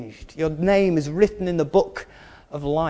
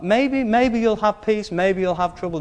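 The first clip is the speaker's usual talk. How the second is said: mock doubtful; 5 semitones higher than usual. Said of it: "No, you will have peace".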